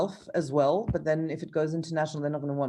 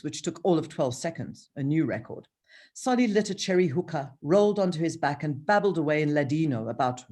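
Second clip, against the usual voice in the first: measured author's reading voice; reading her novel aloud. Shown as a demonstration. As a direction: read the page as you would for the audiobook. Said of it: "let me just read this page as I would read it".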